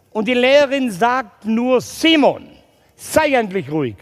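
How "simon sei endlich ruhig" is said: sharp classroom rebuke; stern teacher. Retold or imitated. Teacher loses patience with Simon, stern rebuke.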